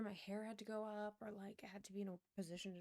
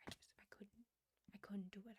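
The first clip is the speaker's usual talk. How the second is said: softer breathy whispered refusal; imitating a hushed friend; 6 dB quieter than usual. Imitating her friend's refusal to shop there, in a soft whispered voice. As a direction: whisper it like you can't bear it.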